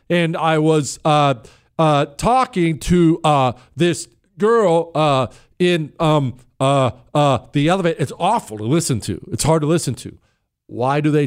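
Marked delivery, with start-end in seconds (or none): 0.1-8.0 slow, halting delivery full of "uh"s; mocking a halting politician's speech. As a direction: stumble through it on purpose. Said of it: "Democrats speak like this".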